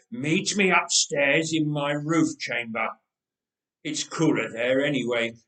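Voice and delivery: a hint of a tired, heavy king; wheezing old king. The wheezing king gives orders.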